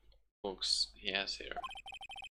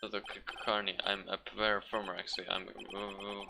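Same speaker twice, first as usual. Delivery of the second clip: nervous stutter. Acted. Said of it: "this guy is so nervous".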